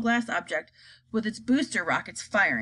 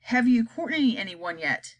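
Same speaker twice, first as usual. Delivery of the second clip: cold, slow demand; icy Miss Tibbs. Acted. Miss Tibbs coldly questions the chief spy. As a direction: freeze him with the question. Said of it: "icy voice".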